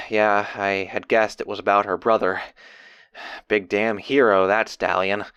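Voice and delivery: low, subdued reflection; sigh, then drop low in respect; sombre. Acted. Diarist recalling a colleague's heroic brother, sombre.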